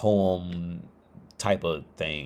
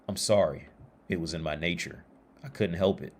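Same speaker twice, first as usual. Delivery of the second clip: softer, understated apology; low-key shrug of an excuse; quietly resigned, after the frog's outcry; apologetic scorpion; 3 semitones lower, 5 dB quieter than usual. Acted. Scorpion excuses the fatal sting.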